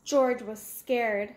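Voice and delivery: ordinary delivery, nothing marked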